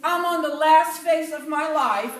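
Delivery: cheery, high and loud retold announcement; upbeat. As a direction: sing out bad news brightly, like upbeat mom. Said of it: "she was so upbeat".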